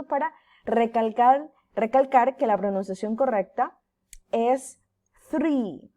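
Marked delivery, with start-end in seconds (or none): 5.3-5.9 "three" with the tongue between the teeth. Shown as a demonstration. Teacher shows "three" with a TH sound. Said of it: "como una Z".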